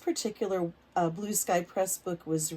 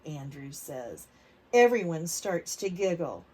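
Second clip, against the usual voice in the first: put-on reading to children; 4 dB louder, slower than usual. A narrator's reading. Teacher reading a picture book aloud to kids. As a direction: lively, clear storybook reading for little ones.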